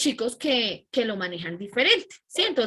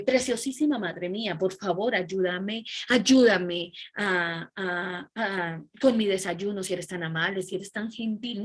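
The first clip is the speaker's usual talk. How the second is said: mock flowery request, a bit lower; overly formal; 3 semitones lower than usual. Teacher mocks an absurdly formal child to mother, lower and flowery. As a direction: ham up a too-polite plea. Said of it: "uno no habla así".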